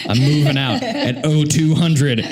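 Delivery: low, deadpan hitman voice; lightly played secret agent; assassin voice. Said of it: "feel kind of like, like an assassin".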